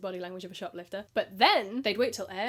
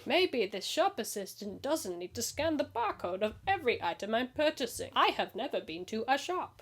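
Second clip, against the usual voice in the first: lightly voiced clueless customer. Shopper hiding a willy warmer, lightly voiced naivety. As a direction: play a lightly mocking dopey shopper. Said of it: "It's my customer voice".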